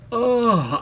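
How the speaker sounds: acted-out swoon; swooning groan. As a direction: let out an overcome, lovestruck groan. Retold swooning reaction to actor.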